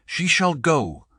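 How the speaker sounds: high booming decree; god thundering his verdict. A narrator's reading. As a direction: thunder the decision. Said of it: "thundered Thor".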